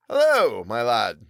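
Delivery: lightly voiced cocky tradesman; tailor voice. Tailor's voice in story.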